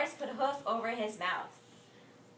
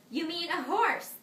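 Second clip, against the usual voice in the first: loud, higher correcting question; incredulous yell; 8 semitones higher, 7 dB louder than usual. Acted. Boris correcting Morris's riddle, loud incredulous yell. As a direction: yell back in disbelief. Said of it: "Boris yelled".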